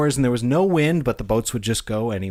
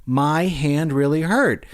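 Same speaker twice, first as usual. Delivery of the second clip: put-on insistent child; 4 semitones higher than usual. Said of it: "He's like".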